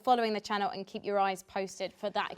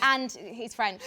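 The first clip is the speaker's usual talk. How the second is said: put-on slow, playful French accent; much slower than usual. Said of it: "That was my French accent".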